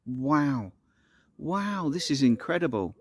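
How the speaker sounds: drawn-out, wonderstruck wows; retold awe at a stunning view; awed. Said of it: "it's so beautiful, so amazing".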